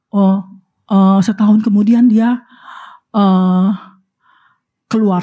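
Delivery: normal talking voice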